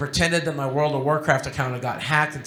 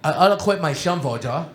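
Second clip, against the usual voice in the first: imitating speech impediment. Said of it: "he had a speech impediment".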